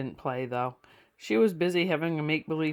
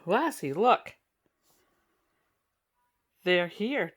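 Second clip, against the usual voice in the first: excited shout; 3 semitones higher, 3 dB louder than usual. A narrator's reading. Young boy calling his dog as guests arrive, excited shout. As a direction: call out gleefully to the dog. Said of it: "Timmy shouted".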